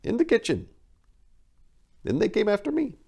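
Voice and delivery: high, loud tearful shriek. Acted. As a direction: shriek it out in panic. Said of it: "she shrieked back the answer".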